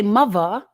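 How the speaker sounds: "mother" with a v sound for th; dropped th. Shown as a demonstration. Mimicking how English people get away with it, "mother" said as muvva. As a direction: say "mother" British-style, like muvva.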